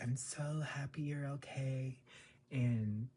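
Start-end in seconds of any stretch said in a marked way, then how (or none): 0.0-2.0 breathy imitated whisper, slightly higher; mock whisper. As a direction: whisper it sweetly like an actress. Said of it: "she's like".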